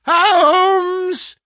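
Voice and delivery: very high, loud, drawn-out call; insistent waking shout. A narrator's reading. Visitor calls the unresponsive patient, shouting insistently. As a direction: shout to wake a heavy sleeper. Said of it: "in the insistent tone of one who awakens a sleeper".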